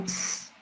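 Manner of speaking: "s" as a pure hissed sound, not the letter name; isolated phoneme. Shown as a demonstration. Teacher asking which word starts with this sound, isolated phoneme. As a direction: hold "s" as a long hiss. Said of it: "empieza con el sonido".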